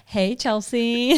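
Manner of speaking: slow, drawn-out teasing greeting; imitating co-host. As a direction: mimic his hesitant hello, stretched out. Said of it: "You go".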